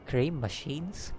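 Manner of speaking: GREY MACHINES lifted at the end as a question; slow, soft query on "Grey machines", ending upward; questioning rise. A narrator's reading. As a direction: ask "Grey machines" softly and slowly, with a rising end. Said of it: "question mark?".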